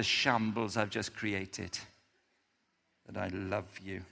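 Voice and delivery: low, soft, humble pleading fading to near silence; humble plea. Acted. Peter's humble plea to Jesus, low and soft. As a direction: confess it gently, almost under the breath.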